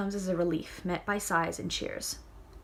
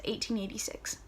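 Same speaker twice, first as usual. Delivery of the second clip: soft whispered date; 5 dB quieter than usual. Acted. Reader whispering the chapter date at the heading. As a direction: breathe the date out.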